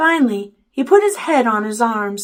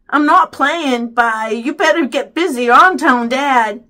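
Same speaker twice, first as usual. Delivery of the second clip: annoyed warning; 4 semitones higher, 7 dB louder than usual. A narrator's reading. Boy warns brother again.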